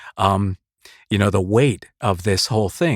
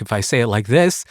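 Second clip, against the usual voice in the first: sarcastic. Shown as a demonstration. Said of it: "it sounds a little sarcastic".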